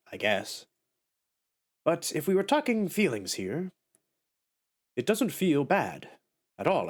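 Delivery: Greeth character voice. Acted. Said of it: "what kind of voice do I wanna give this guy".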